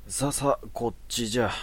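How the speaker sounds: put-on high beckoning old monk; creaky wise old man. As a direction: wave him along sweetly. Priest beckons.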